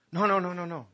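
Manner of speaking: an emphatic acted refusal; firm refusal. Jesus refused, stops him.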